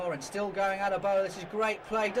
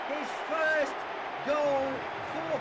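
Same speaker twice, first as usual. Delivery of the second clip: delighted goal call; 7 semitones higher than usual. Real, not acted. First goal for Peed.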